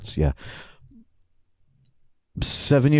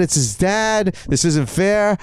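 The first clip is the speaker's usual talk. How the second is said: put-on higher, indignant kid complaint; retold kid's tantrum; 5 semitones higher, slower than usual. Seven-year-old complains to his coach, mildly indignant. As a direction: protest like a wronged child. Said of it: "and I'm all mad".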